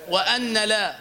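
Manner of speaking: وأن لا with the nun sounded apart; wrong separate nun. Shown as a demonstration. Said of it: "لا أقول".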